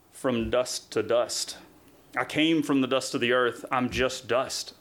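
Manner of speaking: slow, lightly imitated deep voice; low, grave retelling; deep solemn trainer. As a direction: intone it slowly, a little like God. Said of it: "Never forgotten the way he sounded".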